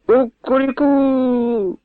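high, slow drawn-out cry from a nightmare; dreamer's high, slow rooster-like yell; sleepy yelling. A narrator's reading. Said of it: "зарепетував Павло".

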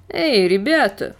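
calling out. Acted. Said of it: "крикнул им один".

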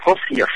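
English-style Perseus; English pronunciation. Shown as a demonstration. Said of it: "còn tiếng Anh nó đọc là".

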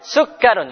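"sugarun" with the r doubled straight away and no lengthening; teacher contrasting "sugarun" with "Harun"; direct doubling. Shown as a demonstration. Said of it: "langsung tasdid ya".

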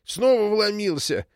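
high, drawn-out indignant outcry; insistent, agitated. A narrator's reading. Old woman reporting an intruder, agitated. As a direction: keep up the agitated accusation. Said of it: "не унималась старуха".

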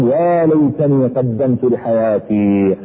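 drawn out very slowly, lamenting; slow mournful plea; regretful cry. Retold or imitated. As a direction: stretch each word like a dying man's regret. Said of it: "بدأ بعضهم يصيح ويقول".

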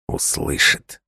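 hushed warning whisper. A narrator's reading. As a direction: breathe it as a warning. Warning the name will be heard.

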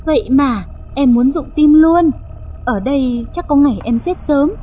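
mild pouty complaint; pouting, coquettish. Acted. Wife complains to husband after her fright, pouting. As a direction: whine a little, affectionately. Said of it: "nũng nịu".

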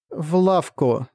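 lightly mechanical doll voice; stiff, hint of a machine; animatronic figure. A narrator's reading. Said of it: "механическим голосом произнесла кукла".

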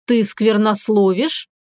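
slow, amazed question; astonished. Acted. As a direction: ask it slowly, taken aback. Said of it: "изумлённо спросил Арис".

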